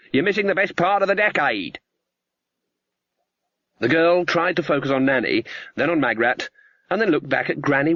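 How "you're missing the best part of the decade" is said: forced cheerful. Acted. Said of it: "in an unusually cheerful voice".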